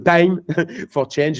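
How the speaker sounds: English words in a strong French accent, laughing; real French accent on English, amused. Real, not acted. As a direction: say the English with a francophone accent, chuckling midway. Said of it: "Excusez-moi pour mon accent anglais".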